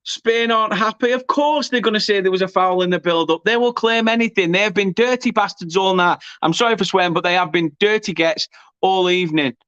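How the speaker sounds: real heated grievance; indignant commentary. Real, not acted. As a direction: dismiss the other team's protests, fired up. Commentator berates opponents after goal.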